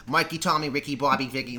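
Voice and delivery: put-on half-successful Boston accent; lightly attempted Boston accent. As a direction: try a Boston accent on the names. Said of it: "It's that accent".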